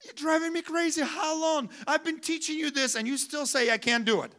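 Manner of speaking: a touch of an exasperated parent. Retold or imitated. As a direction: nag like a worn-out parent. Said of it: "It's like you tell your child".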